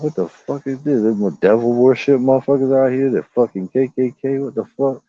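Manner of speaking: startled reaction. Retold or imitated.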